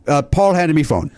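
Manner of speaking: lightly imitated broken-English accent; a hint of bad foreign accent; Andres Galarraga. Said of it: "pardon the, the horrible accent".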